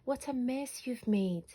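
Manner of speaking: a mother sighing over the mess, lightly voiced; moaning mum. A narrator's reading. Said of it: "moaned Mum".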